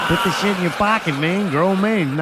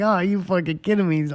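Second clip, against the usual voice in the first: exasperated disbelief; 5 semitones higher than usual. Real, not acted. Exasperated retelling of band mixup.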